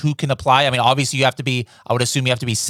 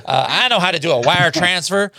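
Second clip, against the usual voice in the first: put-on full Tim's accent, higher and louder; 5 semitones higher, 3 dB louder than usual. Host retrying the supplier Tim's line in Tim's accent. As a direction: commit to Tim's accent this time. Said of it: "accent right there".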